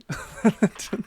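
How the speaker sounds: high, loud giggle. Real, not acted. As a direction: laugh at your own slip. Laughs at own mistakes.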